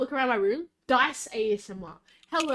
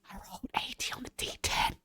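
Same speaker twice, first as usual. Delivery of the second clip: breathy unvoiced whisper, much softer; 11 dB quieter than usual. Real, not acted. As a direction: whisper it right at the listener. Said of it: "Why are you whispering?".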